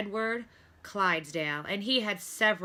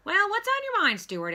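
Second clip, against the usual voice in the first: Doctor Carey; 14 semitones higher, 6 dB louder than usual. A narrator's reading. Doctor Carey voiced, busy.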